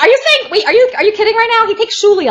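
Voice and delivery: high, incredulous interruption; can't believe what you hear. Real, not acted. Interrupting John mid-story, incredulous.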